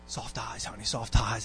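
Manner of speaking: low, hushed imitation of a wife's coaxing; softly coax, as a wife nudging her husband; gentle reminder. Wife reminding her husband about his facial expression, gently coaxing.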